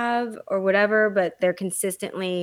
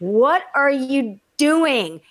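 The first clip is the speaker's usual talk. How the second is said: incredulous outburst; 5 semitones higher, 6 dB louder, much slower than usual. Retold or imitated. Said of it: "I was like".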